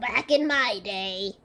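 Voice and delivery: put-on slow, quavering old man voice. Shown as a demonstration. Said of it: "do an old man voice".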